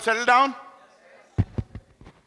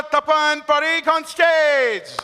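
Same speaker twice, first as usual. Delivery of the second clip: drawn-out, called-out introduction; stage announcement; much slower than usual. Real, not acted. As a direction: announce the name slowly to the hall. Host announcing performer on stage.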